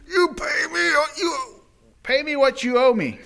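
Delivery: high, loud, choking demand; furious shout. Acted. Servant throttling his debtor, yelling furious demand. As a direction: shout him down for his money.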